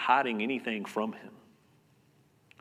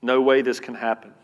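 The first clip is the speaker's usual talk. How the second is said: louder, restrained exclamation of disbelief; mock scream; 6 dB louder than usual. Preacher voices our unbelief to God, mild mock scream. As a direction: cry it out without really screaming. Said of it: "we scream".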